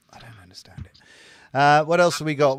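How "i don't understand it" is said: whisper. Real, not acted. Repeated baffled whispered aside.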